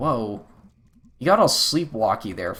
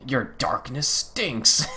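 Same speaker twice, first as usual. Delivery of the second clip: slow taunting creature; much slower than usual. Acted. Dark voice taunting May.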